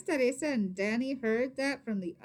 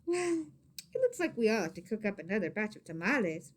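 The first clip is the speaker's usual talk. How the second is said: cheerful; faster than usual. Acted. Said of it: "Rosa said cheerfully".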